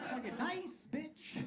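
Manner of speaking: muttered inner thought. Retold or imitated. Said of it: "That's what I thought".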